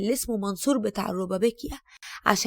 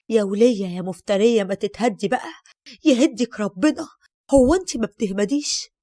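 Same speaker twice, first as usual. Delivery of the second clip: angry curse; 5 dB louder than usual. Acted. Daughter-in-law's hidden thoughts cursing.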